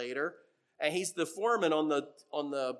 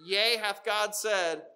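Satan's taunt; 4 semitones higher, 4 dB louder, slower than usual. Retold or imitated. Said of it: "Satan comes and says".

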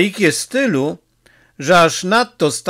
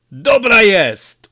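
slow, louder and higher, pleased; glad; 6 semitones higher, 5 dB louder, slower than usual. A narrator's reading. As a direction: cheer up at the news. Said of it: "ucieszył się Peppone". (Peppone cieszy się z wieści: radośnie, głośniej)

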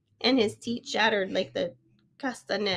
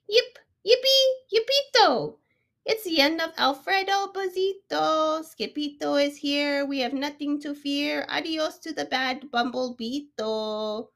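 high excited cheering; high festive yelping chant; 5 semitones higher than usual. Acted. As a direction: whoop it like a joyful crowd. Crowd cheers in story.

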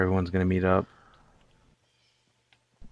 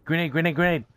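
grenade warning yell; 7 semitones higher, faster than usual. Real, not acted.

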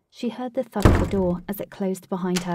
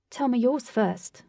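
upbeat; 4 semitones higher than usual. Acted. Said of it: "Katie said in an upbeat manner".

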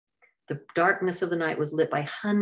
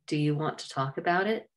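gently. Acted. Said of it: "he asked gently".

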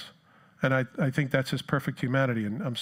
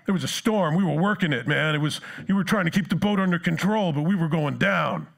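loud, higher indignant complaining; exasperated disciples; 4 semitones higher, 4 dB louder than usual. Retold or imitated. Disciples griping at sleeping Jesus, loud and indignant. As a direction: vent like overworked sailors.

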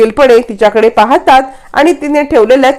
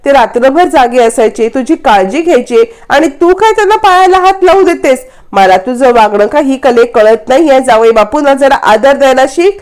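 irritated scolding mother. Retold or imitated. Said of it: "यावरती संगीता चिडते".

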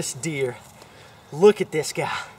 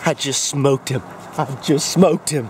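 excited; 3 semitones lower, 3 dB louder than usual. Real, not acted. Just shot a big deer.

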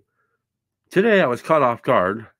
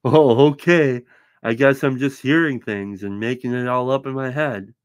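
sarcastic; 2 semitones higher, 5 dB louder than usual. Retold or imitated. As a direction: sound like you don't believe a word. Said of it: "suspiciously said with a smile and sarcastic tone".

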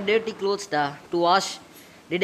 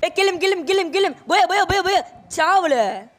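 high, loud game war cries; frenzied battle yell; 10 semitones higher, 4 dB louder than usual. Acted. Game-addicted patient yells war cries while attacking Akshay. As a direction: scream it like charging into battle.

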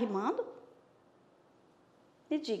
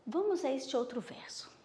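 whisper; 7 dB quieter than usual. Real, not acted. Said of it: "whisper to class".

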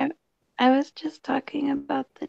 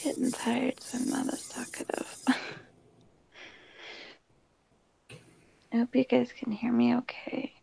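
whispering so roommates can sleep; hushed late-night whisper; quiet at night. Real, not acted. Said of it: "I'm talking quiet because my roommates are asleep".

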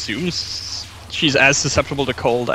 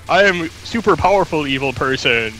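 mad scientist; 3 semitones higher than usual. Pretend. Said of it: "she should play that off and just be like".

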